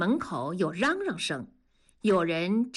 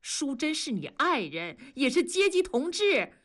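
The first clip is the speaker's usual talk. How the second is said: indignant lecture, climbing higher; stern reprimand; 6 semitones higher than usual. Acted. Master reprimanding worker for hitting his wife, indignant. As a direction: scold him, speeding up toward the final question.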